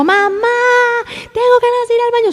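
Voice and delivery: put-on high, fast, pleading child's wail; desperate crying child. Child crying urgently to his mother, mock pleading wail. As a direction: whine it like a kid who can't hold it. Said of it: "el niño que está llorando y está gritando".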